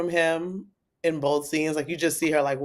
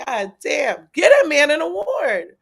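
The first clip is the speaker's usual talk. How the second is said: amazed exclaim; 9 semitones higher, 5 dB louder than usual. Retold or imitated. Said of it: "I was like".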